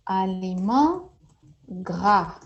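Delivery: Aliment gras said slowly, syllable by syllable; slow model pronunciation. Shown as a demonstration. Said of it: "For fatty, fatty foods".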